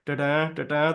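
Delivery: "da-da" with the first syllable strong and the second weak, twice; trochaic stress. Shown as a demonstration. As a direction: tap out "da-da, da-da" as strong-weak beats. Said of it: "trochaic stress".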